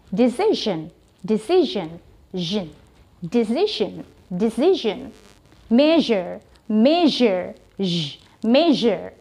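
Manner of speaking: decision and measure with a humming zh; buzzing zh. Shown as a demonstration. Teacher showing the humming zh sound. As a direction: let the zh in decision buzz. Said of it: "mendengung gitu ya".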